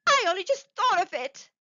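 high, loud, overexcited burst; hysterical. A narrator's reading. Wife struck by a sudden idea, hysterical. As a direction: blurt it out hysterically. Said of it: "she said hysterically".

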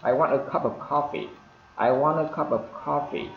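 light, linked phrase with the T in "want" held back; unreleased final T. Shown as a demonstration. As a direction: glide through "want a cup" without popping the T. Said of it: "chúng ta ngắt cái âm T".

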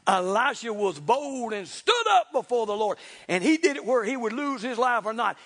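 emphatic, driving sermon delivery; forceful preaching. Real, not acted. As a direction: preach it with conviction.

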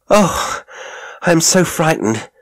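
high, loud, gasping fright; frightened panting. A narrator's reading. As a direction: blurt it out in breathless terror. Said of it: "I panted".

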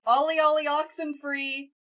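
high sing-song playground call; bullhorn shout. Acted. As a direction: call out loudly, stretching the last words. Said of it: "I'm gonna shout just straight".

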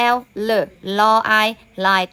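"L เล ลอ I lie", letter sounds blended into the word; teacher's phonics demo of "lie"; sounding out. Shown as a demonstration. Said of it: "ทบทวนเรื่องของ อ่า เสียงอ่าน".

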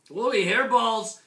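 high, loud, drawn-out exclamation; exclaiming. A narrator's reading. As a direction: cry it out in amazement as the story kitten. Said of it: "exclaimed Skippy John Jones".

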